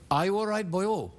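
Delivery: attempted Welsh accent with a Pakistani lilt. Shown as a demonstration. Guest demonstrates his accent for the host, attempted Welsh-Pakistani accent. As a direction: have a go at a lilting Welsh accent, tipping into Pakistani. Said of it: "let's pretend that I said".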